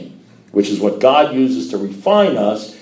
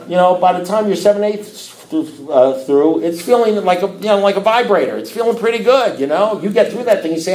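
laughing; 8 semitones higher than usual. Real, not acted. Laughing about vibrator comparison.

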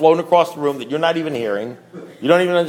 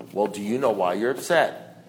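low, soft, understated sponsor voice; imitating a sponsor's quiet probing; sponsor's question; 7 semitones lower, 6 dB quieter than usual. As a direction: ask quietly, down low, unruffled. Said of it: "that's what my sponsor said to me".

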